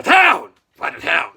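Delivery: loud, drawn-out mock announcement; mocking call. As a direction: call it out slowly and loudly. Mockingly calls out the move.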